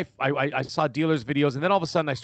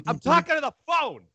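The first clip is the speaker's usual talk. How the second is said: defensive reply; 11 semitones higher than usual. Retold or imitated. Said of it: "And I'm like".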